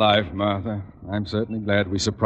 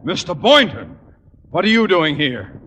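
louder, higher startled shouting; 11 semitones higher, 5 dB louder than usual. Acted. Conklin finds Miss Brooks at his cottage, startled shout. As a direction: shout in shock at the guests.

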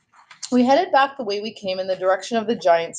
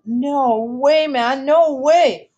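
disbelieving exclamation; 6 semitones higher, 4 dB louder, much slower than usual. A narrator's reading. Boy reacts in disbelief.

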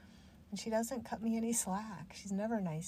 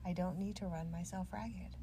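lightly put-on calm, matter-of-fact firmness; mild adult yoga voice. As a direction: calmly talk back to the inner critic. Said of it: "I use that adult yoga voice sometimes on Ugly Betty".

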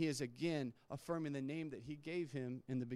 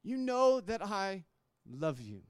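much higher and louder, pleading in frustration; aggravated outburst; 5 semitones higher, 7 dB louder than usual. Acted. Peter, grieved by the third question, cries out aggravated to Jesus. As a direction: burst out, hurt at being asked again. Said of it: "he's a little aggravated".

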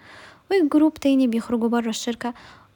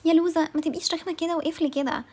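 mocking the critics; 5 semitones higher than usual. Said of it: "ناس هتقولي".

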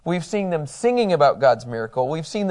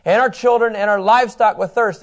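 raised, louder mock grievance; hammed-up accusing gripe, pitched up; grumbling complaint; 5 semitones higher, 5 dB louder than usual. Preacher voicing thirsty Israelites to Moses, grumbling complaint. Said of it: "grumbled against Moses".

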